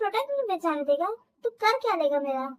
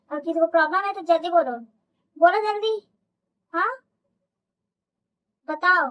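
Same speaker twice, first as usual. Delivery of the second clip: louder, menacing warning to the room; angry threat; 3 dB louder than usual. Acted. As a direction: dare anyone to speak up. Boss threatens after the fight.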